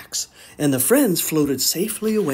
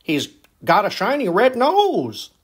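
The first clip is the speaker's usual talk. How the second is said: surprised; 5 semitones higher than usual. Acted. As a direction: gasp it out amazed. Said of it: "said Donner in surprise".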